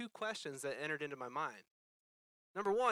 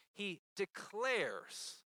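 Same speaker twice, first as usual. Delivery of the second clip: declares stretched out very slowly, with conviction; emphatic declaration; 3 semitones higher, much slower than usual. Shown as a demonstration. Preacher stresses Jesus' unhesitating verdict, declares slowly drawn out. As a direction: draw out declares as a firm pronouncement. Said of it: "he didn't say it timidly".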